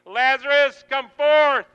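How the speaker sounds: high, loud shouted summons; commanding call. Acted. Jesus calling Lazarus by name into the cave, commanding shout. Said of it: "you hear your own name".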